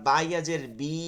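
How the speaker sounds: final "বি" held long; vowel drawn out. Shown as a demonstration. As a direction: spell it out, stretching the vowel of "বি". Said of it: "এখানে টান দিছেন".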